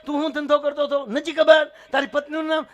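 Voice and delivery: high, loud rapid-fire quiz; yelled interrogation. Acted. God quizzes forgetful man on family, high yelled exchange. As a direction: fire question and answer at the same shrieking pitch.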